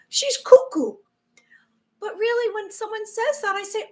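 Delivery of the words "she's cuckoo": sneering doubter, louder; mocking critic. Viewer mocking her as cuckoo. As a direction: scoff like someone dismissing her. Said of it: "sound like they're conspiracy theories".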